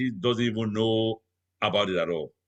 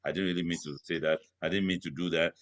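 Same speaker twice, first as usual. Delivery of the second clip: lower, toned-down apology; imitating the wife backing down in a lower voice; 4 semitones lower than usual. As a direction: come down low and meek. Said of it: "You come down with a low voice".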